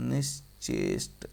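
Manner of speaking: निश्चेष्ट slowly, in parts निश् and चेष्ट; syllable by syllable. Shown as a demonstration. Teacher showing the corrected spelling, syllable by syllable. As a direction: break निश्चेष्ट up and finish on a clear ष्ट. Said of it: "ऐसे लिखा जाएगा".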